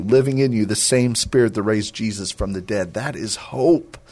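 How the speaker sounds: earnest sermon voice, lifting on key words; preaching exhortation. Acted. Radio host urging listeners to walk in freedom, earnest preaching. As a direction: urge the listeners toward hope.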